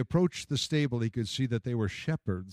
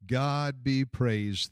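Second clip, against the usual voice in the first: slow and reverent; deep reverence; much slower than usual. Acted. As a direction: breathe it out in awe, slowly. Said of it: "with deep reverence".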